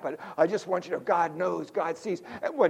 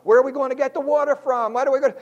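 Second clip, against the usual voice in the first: fretting Israelites; 5 semitones higher, 3 dB louder, faster than usual. Retold or imitated. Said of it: "That's what they're looking".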